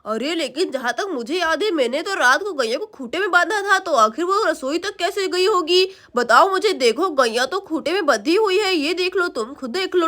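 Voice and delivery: lightly voiced man; reasoning father. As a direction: reason it out as the husband.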